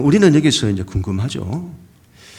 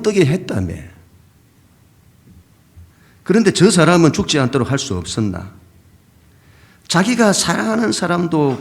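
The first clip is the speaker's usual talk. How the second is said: mocking jeer; 3 semitones higher than usual. Bystanders jeering at Jesus over dead Lazarus, mocking and higher. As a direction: sneer it out like a scoffing bystander. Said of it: "주변 사람들이 조롱하는 거죠".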